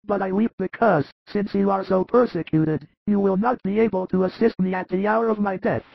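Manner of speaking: frail high voice, anxious; frightened dying Lazarus. Acted. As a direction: voice a dying man's fear of death.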